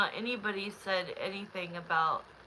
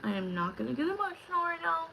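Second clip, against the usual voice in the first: holding back tears; 9 semitones higher, faster than usual. Real, not acted. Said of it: "at a breaking point".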